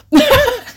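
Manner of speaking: high, loud giggle; burst of laughter. Real, not acted. Laughs at the plot.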